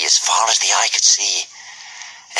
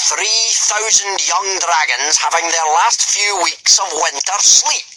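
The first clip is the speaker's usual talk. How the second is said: booming Gobber; 9 semitones higher than usual. A narrator's reading. Gobber addressing the boys at full volume, booming. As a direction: boom it out like a hearty Viking teacher.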